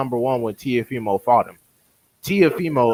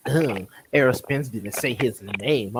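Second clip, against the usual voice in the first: mocking whiny fan. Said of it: "dudes would be like".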